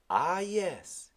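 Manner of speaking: put-on high, loud island-accented old man; old Caribbean sailor. Old sailor answering the boy, Caribbean accent. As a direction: give Timothy his lilting Caribbean voice. Timothy speaks.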